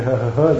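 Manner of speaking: fake tough laugh. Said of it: "se preface că e tare și râde".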